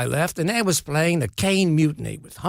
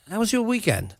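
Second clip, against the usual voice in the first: terrible Michael Caine; 7 semitones higher, 4 dB quieter than usual. Retold or imitated. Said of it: "terrible Michael Caine impression".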